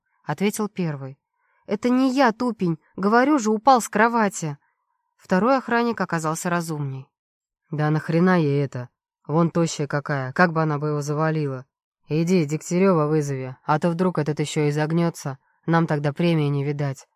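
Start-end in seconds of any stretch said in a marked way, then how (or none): 1.7-4.6 angry protest. Acted. Heroine angrily protests. 7.7-17.1 lower, offhand guard voice; a hint of a cynical guard; lazy second guard.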